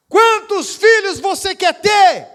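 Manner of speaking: slow, loud, high pastor's question; loud urging. Retold or imitated. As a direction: draw it out like a demand. Pastor presses her.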